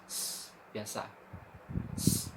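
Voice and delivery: "s" as a light, thin hiss; thin s sound. Shown as a demonstration. Teacher contrasting sin with shin, a thin s. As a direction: give a plain thin "s" sound. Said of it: "sin tipis".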